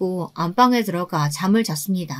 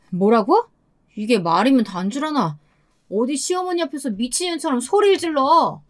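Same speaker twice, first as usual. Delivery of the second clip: mildly outraged husband, rising in pitch; angry rebuke; 5 semitones higher than usual. Acted. Husband scolding wife for yelling before his mother, indignant. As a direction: scold her, building to higher indignation.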